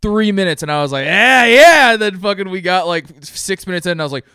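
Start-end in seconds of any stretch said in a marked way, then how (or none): 1.1-1.9 loud, high whoop of approval; big excited yell; mock cheer. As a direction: cheer it on like a hyped fan. Retelling own cheer at race.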